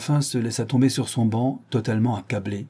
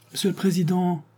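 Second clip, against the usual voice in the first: cries out; 9 semitones higher than usual. Acted. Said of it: "s'écria Séraphin".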